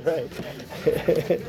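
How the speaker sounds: chuckled, real agreement; laughing. Real, not acted.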